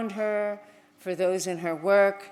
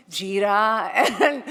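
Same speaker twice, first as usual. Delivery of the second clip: laughing; 8 dB louder than usual. Real, not acted. Laughing remembering smells.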